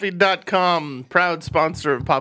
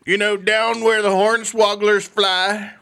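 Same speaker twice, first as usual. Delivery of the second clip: put-on old prospector; 4 semitones higher than usual. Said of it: "Like a grizzled old prospector?".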